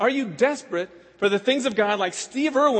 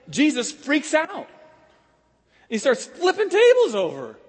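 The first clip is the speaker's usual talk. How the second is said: dramatic build; 7 semitones higher, 5 dB louder than usual. A narrator's reading. Dramatic retelling, rising intensity.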